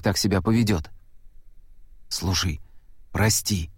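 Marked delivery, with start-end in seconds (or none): 2.1-3.7 softer, lower, sighing sorry; sighing apology. A narrator's reading. Boy apologising to the frightened girl with a soft sigh. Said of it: "Лука вздохнул".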